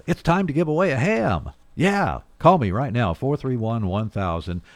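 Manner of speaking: rally the callers now; excited giveaway call. Real, not acted. Host urging listeners to phone in for the ham, excited.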